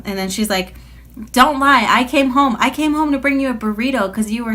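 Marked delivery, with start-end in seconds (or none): 1.3-4.5 higher, louder mock scold; retold mom scolding about the burrito and car; imitated scolding mom. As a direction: play the mom catching her in a lie.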